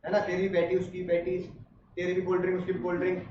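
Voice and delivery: lightly voiced dad talking it over; imitating dad. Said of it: "तो पापा ने कहा".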